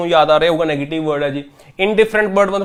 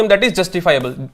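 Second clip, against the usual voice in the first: slow dictation; much slower than usual. Shown as a demonstration. Teacher giving the answer slowly.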